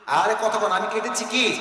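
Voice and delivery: pressing repeat, voice lifted; prodding the audience. Real, not acted. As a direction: push them to answer. Prods audience to answer louder.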